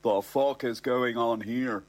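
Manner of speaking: slow, deliberate repeat of the question; each word laid down slowly, pointedly. Retold or imitated. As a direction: spell it out word by word. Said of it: "I asked a question".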